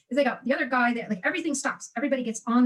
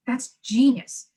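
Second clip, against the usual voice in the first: very slow, a little louder, in awe; awed; 5 dB louder, much slower than usual. Retold or imitated. Slowly telling the listener her awed reaction to Starbucks. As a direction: stretch it out as if struck by a bright idea.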